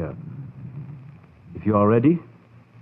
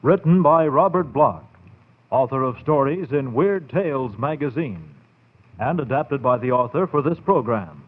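put-on measured, old-time radio credits read; radio announcer. Announcer closing a radio terror programme, formal and measured.

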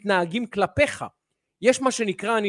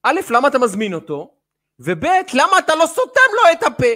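mock critics' complaint; 7 semitones higher, 9 dB louder than usual. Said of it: "ואנשים אומרים לי".

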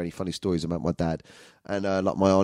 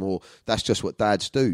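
ordinary delivery

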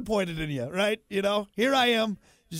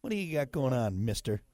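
suspicious questioning; 3 semitones lower than usual. Retold or imitated. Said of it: "so like".

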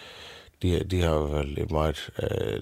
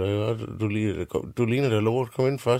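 dronningen; 5 semitones higher than usual. Acted. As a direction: coo it out like a fussing queen. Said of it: "siger hun". (dronningen kurrer højt til den lille pige)

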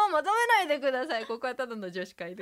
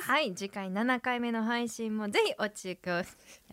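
flubbed sign-off; slower than usual. Real, not acted. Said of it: "もう一回いきます".

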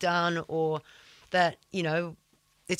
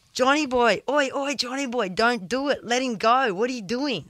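raised, higher urgent call to stop a fight; screaming out a warning; 5 semitones higher than usual. Retold or imitated. Surfer yelling at a local to stop the punch. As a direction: yell across the water to stop him. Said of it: "And I screamed out".

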